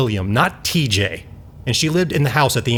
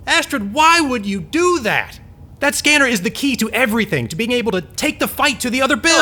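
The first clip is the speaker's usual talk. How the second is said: dismayed; 10 semitones higher than usual. Acted. Dismayed at sabotage.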